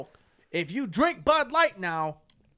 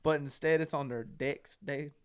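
lightly put-on dude voice, slowing mid-thought; 2 semitones lower than usual. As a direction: stretch the filler words in a mildly fake voice. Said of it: "Why are you talking like that?".

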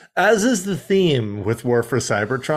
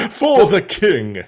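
Inferno voice; 4 semitones higher, 3 dB louder, slower than usual. Retold or imitated. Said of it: "Hold on, comrades".

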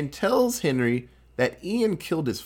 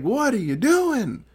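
mock outrage; 8 semitones higher than usual. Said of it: "And Ian's like".

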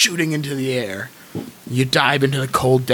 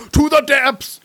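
whale voice; 11 semitones higher, slower than usual. Acted. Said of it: "This is my whale voice".

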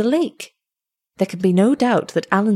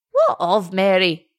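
lightly voiced old man, alarmed; old father's cry. Old shepherd asks after his daughter, lightly voiced and alarmed. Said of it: "cried the goodman".

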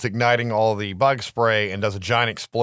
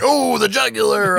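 high, louder mock-excited cry; gleeful exclamation; 10 semitones higher, 5 dB louder than usual. Imitating Max relishing the kill, high excited cry. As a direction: squeal it like a delighted fan. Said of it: "He's like".

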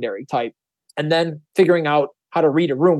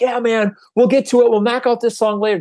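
carefree fun guy; 7 semitones higher than usual. Retold or imitated. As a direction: toss it off like a slacker musician. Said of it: "the fun person's just like".

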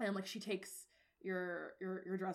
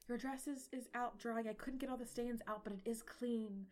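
slightly raised, hesitant mom voice; timid, terrified; 3 semitones higher than usual. Acted. Game master as terrified mom reporting on the dress, timid. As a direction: report carefully, afraid to displease royalty. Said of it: "she's fucking terrified of you".

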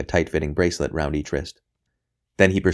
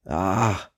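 a scream of agony, barely voiced; whispered scream; 3 semitones higher than usual. A narrator's reading. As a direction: cry out in pain under the breath. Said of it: "a scream, whispered rather than shrieked".

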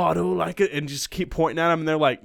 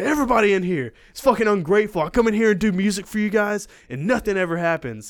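higher, louder and fast mock rant, easing off at the end; imitated angry rant; 6 semitones higher, 5 dB louder than usual. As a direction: vent at the ungrateful crowd. Angry performer ranting.

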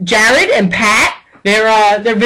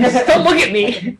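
trying not to laugh. Retold or imitated. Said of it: "I'm not gonna laugh".

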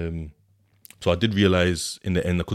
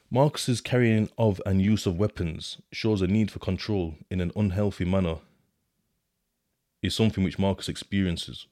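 reading the report. Shown as a demonstration.

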